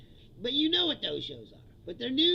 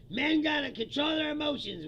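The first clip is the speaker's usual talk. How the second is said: quoting the host; 4 semitones higher, 4 dB louder than usual. Retold or imitated. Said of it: "what he said".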